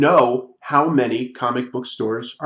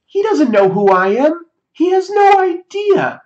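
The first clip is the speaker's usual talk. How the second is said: laughing; 7 dB louder than usual. Real, not acted. Laughing at awkward encounter.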